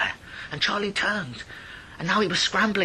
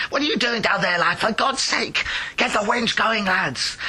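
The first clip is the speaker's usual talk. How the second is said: gruff miner shout; 4 semitones higher than usual. Acted. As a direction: bark orders at the lads.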